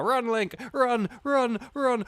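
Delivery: loud high panicked run; urgent shout. Pretend. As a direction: yell it while fleeing. Urging himself to flee.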